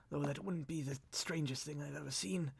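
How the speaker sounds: weak, murmured afterthought; cracked, broken voice. Acted. Rescued lord musing on odd memories, cracked voice. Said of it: "cracked and broken".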